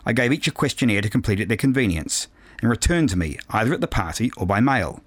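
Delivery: measured, precise audiobook reading; composed novel narration with careful phrasing; story narration. A narrator's reading. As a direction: read it aloud as a first-person story. Reads a novel aloud.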